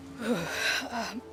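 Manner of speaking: soft, shaky-relief sigh after confessing; nervous exhale. Acted. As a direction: let the breath out softly.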